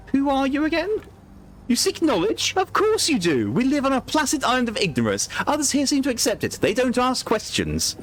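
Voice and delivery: put-on sweetly menacing, like luring a child; creepy clown. Voices the clown explaining himself.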